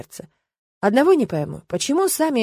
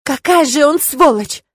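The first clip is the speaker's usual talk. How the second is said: loud, slow furious cry; angry outcry; 6 semitones higher, 7 dB louder, slower than usual. A narrator's reading. Irma bursts out about Alexander, loud angry outcry. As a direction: shout it out in anger. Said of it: "выкрикнула девушка".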